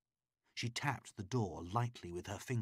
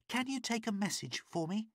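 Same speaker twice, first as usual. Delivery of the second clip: much higher, urgent woman's voice; higher pleading woman; pleading captive woman; 14 semitones higher than usual. A narrator's reading. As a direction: beg for help through the door.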